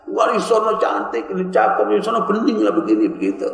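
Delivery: lightly mimicked girl-watcher chatter; gushing admirer. Imitating a man who always talks about women, gushing.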